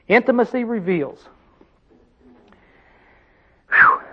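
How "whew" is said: whew. Real, not acted. Exhales after intimacy point.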